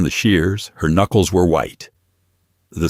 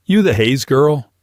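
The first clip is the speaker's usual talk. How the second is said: tough thug; 8 semitones higher than usual. Acted. Thug questions Naomi.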